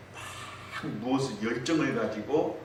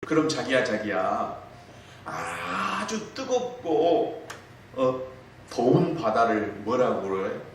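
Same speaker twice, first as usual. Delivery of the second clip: cutesy wife; 3 semitones higher, slower than usual. Retold or imitated. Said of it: "애교, 애교".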